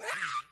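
mock scream. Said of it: "I'm screaming".

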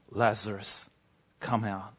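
a soft call, like waking someone from sleep; gentle waking call. Acted. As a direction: call Lazarus out gently and simply. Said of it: "as though he's doing something as simple as waking someone".

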